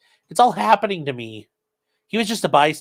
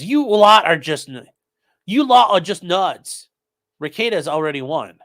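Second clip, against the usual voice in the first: bad British accent; 4 semitones higher, 4 dB louder than usual. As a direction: read the chat message in a hammed-up British accent. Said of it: "that was a bad British accent".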